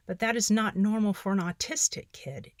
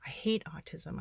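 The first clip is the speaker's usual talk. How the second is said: whispered; 6 dB quieter than usual. Real, not acted. Reading own despairing journal entry.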